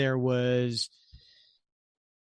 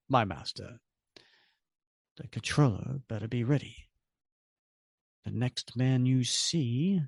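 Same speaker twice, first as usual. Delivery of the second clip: lightly voiced villains plotting; a hint of sly menace between master and servant; scheming villains; 2 semitones higher than usual. Stranger and Red Skull trade lines, lightly voiced scheming.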